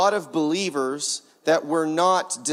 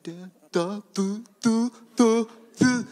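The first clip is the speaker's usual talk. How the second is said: short babbled syllables, climbing; babbling baby; 4 semitones higher than usual. Retold or imitated. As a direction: babble carefree like a baby trying sounds. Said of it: "A baby's like".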